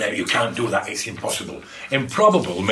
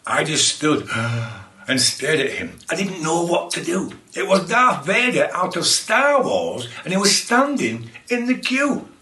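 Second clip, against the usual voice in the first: story reading. Acted. A read-aloud silly poem.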